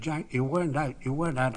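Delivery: put-on a young fan pleading his hero wasn't out; excited protest. Boy to Jack Hobbs, excited insistent protest.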